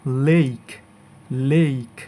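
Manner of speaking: লেক with a long ei glide; correct pronunciation. Shown as a demonstration. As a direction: say লেক as "leik". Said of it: "correct pronunciation হবে".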